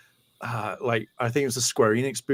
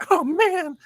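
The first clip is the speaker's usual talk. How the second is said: high, loud wail of letdown; disappointed fan impression; 4 dB louder than usual. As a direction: whine it way up high, crushed. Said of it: "He's like".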